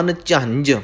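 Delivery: ਅਨਝੰਝ with both jh letters clearly sounded. Shown as a demonstration. Teacher modelling for learners, ਅਨਝੰਝ with both jh articulated. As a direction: say ਅਨਝੰਝ carefully, jh at middle and end. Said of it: "ਦੋ ਝੱਜੇ ਲੱਗੇ ਹੋਏ ਨੇ".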